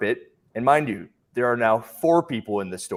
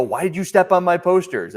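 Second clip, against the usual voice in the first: retold retort; 8 semitones higher, 5 dB louder than usual. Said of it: "And I go".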